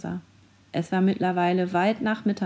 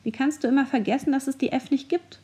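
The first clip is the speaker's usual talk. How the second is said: fast, higher, exasperated jab; cheeky, annoyed; 6 semitones higher, faster than usual. Acted. A cheeky mascot snaps at the other one, fast and higher. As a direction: roll your eyes at a friend who always forgets. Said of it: "eine andere freche Stimme genervt".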